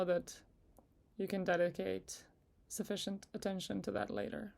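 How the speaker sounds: unhurried meditation guide with long pauses; guided meditation. Acted. Guide asking listeners to relax with each breath, in calm meditation voice. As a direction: ease them gently through it, leaving space between phrases.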